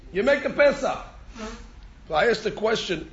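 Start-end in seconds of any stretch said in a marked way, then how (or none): 0.1-1.0 "make" pushed higher and louder; stress on make. Shown as a demonstration. Teacher stressing the verb for students, "make" raised and loud. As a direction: lean hard on "make" in "You make a Pesach". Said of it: "does it say you make a Korban Pesach".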